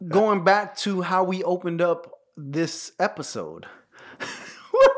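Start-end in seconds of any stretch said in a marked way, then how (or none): 4.2-4.7 fake laugh. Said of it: "I was trying out my fake laugh".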